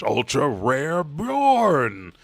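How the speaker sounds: high, loud, drawn-out yell; acted rapturous shout. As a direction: stretch the name into a long shout. Roto shouts while dashing, retold.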